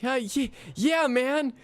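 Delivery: high, squeaky character voice; cartoonish squeak pretending to be normal; obvious put-on voice. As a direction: deny it in a high fake voice. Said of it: "are you not doing a voice".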